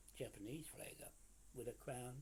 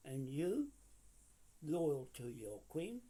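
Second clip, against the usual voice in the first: louder, slow and forceful; loud accusation; 3 semitones higher, 6 dB louder, slower than usual. Real, not acted. Ranting at Tamaiti over the flag, loud and slow. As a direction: hammer the accusation home. Accusing rival in angry rant.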